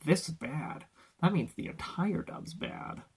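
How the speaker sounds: hushed, dismissive mock verdict; mocking critic. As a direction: drop the volume right down to parody a hasty judgement. Mimics people judging from one line.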